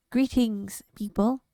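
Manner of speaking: lightly voiced nervous little alien; a hint of a shy squeak; squeaky shaky alien. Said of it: "said a squeaky, shaky voice".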